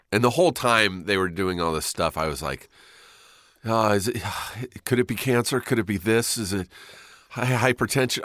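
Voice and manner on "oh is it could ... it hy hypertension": higher-pitched anxious questioning; mildly panicked, acted-out worrying; retold freak-out. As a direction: fret through one worry after another, with a sigh. Really freaking out.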